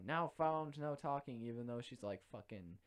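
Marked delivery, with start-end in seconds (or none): 0.1-1.4 mock strict teacher. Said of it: "very strict, very by the rules".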